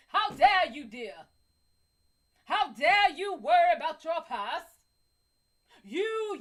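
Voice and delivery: loud, hammed-up doting praise. Telling the guy he's a manly man, hammed-up and loud. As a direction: gush over him like a devoted admirer. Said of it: "tell him in that voice".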